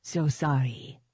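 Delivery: put-on Hollows accent, breathed out; thick Hollows accent. A narrator's reading. Threatening the man beneath her, thick Hollows accent. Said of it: "I breathed in a thick Hollows accent".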